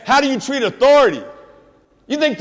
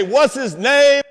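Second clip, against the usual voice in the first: crowd call; 3 semitones higher, slower than usual. Shown as a demonstration. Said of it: "hold it up in front of crowds and say".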